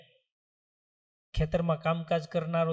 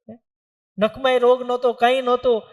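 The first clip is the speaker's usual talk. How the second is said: louder, higher cry of grief; loud lament; 6 semitones higher, 8 dB louder than usual. Acted. Parents crying out to the saints over their fallen son. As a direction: wail that he had no illness at all.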